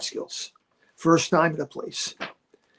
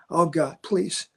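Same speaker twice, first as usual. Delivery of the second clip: desperate prayer. Retold or imitated. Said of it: "and I'm saying".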